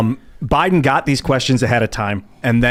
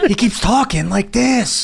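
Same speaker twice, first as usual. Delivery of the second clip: slow, higher-pitched mock whine; whining imitation; 5 semitones higher, slower than usual. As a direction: drag it out in a whiny put-on tone. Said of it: "He's whining".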